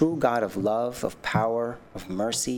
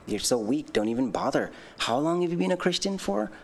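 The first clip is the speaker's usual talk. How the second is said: taunting tempter voice; 6 semitones higher than usual. Retold or imitated. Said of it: "he says things like".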